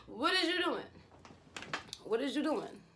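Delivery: high-pitched baffled question, easing off on the repeat; incredulous questioning. Retold or imitated. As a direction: demand an explanation in retold disbelief. Retelling her reaction to his outburst.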